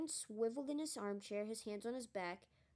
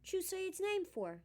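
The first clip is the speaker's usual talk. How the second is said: much higher and slowed, aghast; horrified yelp; 11 semitones higher than usual. A narrator's reading. Conductor scolding the boy for saying the name: high horrified yelp. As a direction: stretch it out in shocked disbelief. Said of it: "yelped Stan".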